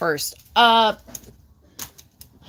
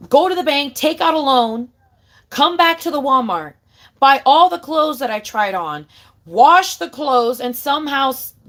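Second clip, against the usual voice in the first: indignant rant; 3 semitones higher, 4 dB louder than usual. Real, not acted. Ranting back at commenter.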